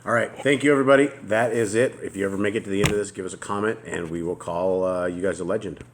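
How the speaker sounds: loud, fast, upbeat sign-off; excited outro. Real, not acted. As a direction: rev it up for the goodbye. Energetic sign-off to viewers.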